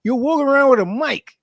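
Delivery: high, pushed-up voice lecturing the guy; imitating telling off a cheater. Viewer scolding a cheating contestant, mock lecture. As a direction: scold him like a fed-up friend. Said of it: "And I'm just there like".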